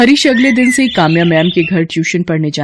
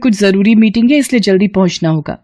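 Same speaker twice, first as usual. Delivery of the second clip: higher voice, hurried and casual; a daughter rushing out the door; young woman Kamya; 4 semitones higher than usual. Acted. Narrator voices Kamya to mother. (ऊँची आवाज़ में जल्दी-जल्दी, बेटी का अंदाज़)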